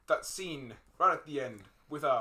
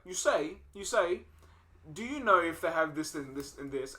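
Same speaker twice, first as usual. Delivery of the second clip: put-on Minnesota accent; 3 semitones higher than usual. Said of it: "she's like".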